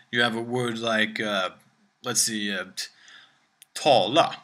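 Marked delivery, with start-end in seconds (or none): 3.7-4.4 tala said with a falling tone on tal; Swedish down tone. Shown as a demonstration. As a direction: let tala drop in pitch. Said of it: "that tall is a down tone".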